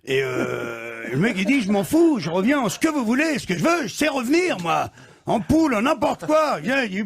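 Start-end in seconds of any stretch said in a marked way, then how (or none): 1.6-6.6 eager, higher and pushing; desperate man begging Saint Peter, voice climbing; pleading excitedly. Acted. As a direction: beg to come back, any form will do. Man begging to return to life.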